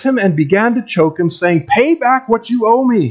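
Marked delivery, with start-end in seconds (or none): 1.7-3.1 a higher, harsh demand, pushed hard. A narrator's reading. Servant throttling his fellow servant over a small debt, harsh demand. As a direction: snap the debt demand at him like a bully. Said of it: "he demanded".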